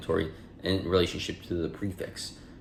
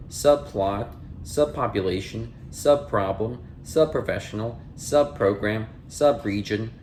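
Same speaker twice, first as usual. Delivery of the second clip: measured, clear dictionary-entry read; slower than usual. Acted. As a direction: announce each headword, then read its definition evenly. Reads list of sub- words.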